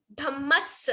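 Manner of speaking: धम्मस with doubled m and doubled s; double consonants. Shown as a demonstration. Teacher explaining double letters to class, careful pronunciation. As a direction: hold both the म and the final स in धम्मस. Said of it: "इसमें double म है, double स है".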